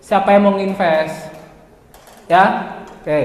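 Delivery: slow, falling questions with little energy; listless pitch. Shown as a demonstration. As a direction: imitate a student reading out a dull sales pitch. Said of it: "nadamu seperti itu".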